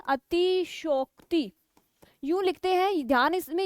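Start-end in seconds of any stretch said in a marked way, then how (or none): 0.1-1.5 slow spelled-out word. Shown as a demonstration. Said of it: "कैसे लिखते हैं?".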